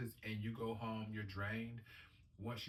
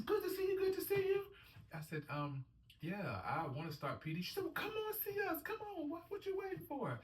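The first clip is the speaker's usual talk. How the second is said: energetic nurse. Retold or imitated. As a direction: imitate her bouncing enthusiasm. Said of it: "And she says".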